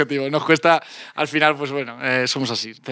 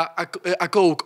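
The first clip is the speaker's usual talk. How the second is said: show-off English pronunciation of "Coke"; put-on English accent; much slower than usual. Boy back from England acting cool, put-on English accent. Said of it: "¿Venías con acento inglés?".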